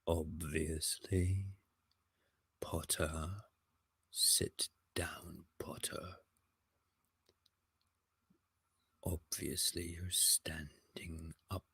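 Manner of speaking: slow, lightly voiced Snape sneer; a hint of the stern potions master, drawn out; Snape impression. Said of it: "Snape impression".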